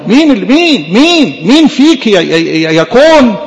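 a preacher's defiant crescendo; rising challenge. Acted. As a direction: hammer the question مين harder each time.

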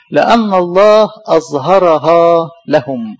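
solemn verse recitation. Acted.

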